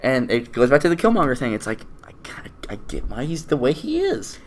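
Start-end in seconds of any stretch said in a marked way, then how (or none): 2.0-4.4 whisper. Real, not acted. Confiding aside about Killmonger.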